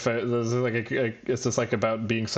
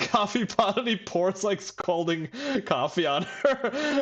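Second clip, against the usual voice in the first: usual speaking voice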